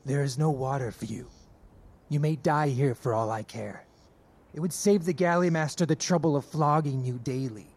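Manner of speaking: low, contemptuous refusal; cold and cruel. Acted. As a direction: dismiss him without pity. Guard coldly refusing water.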